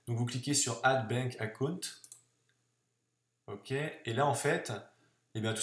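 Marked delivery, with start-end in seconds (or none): 0.8-1.8 English button label in a French accent. Real, not acted. Tutor tells viewers what to click, French-accented English. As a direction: say the English words with French sounds. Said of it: "j'ai un super accent anglais".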